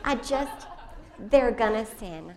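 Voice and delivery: loud laughing words. Real, not acted. Mother laughs while admitting her children will sin. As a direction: laugh through the line.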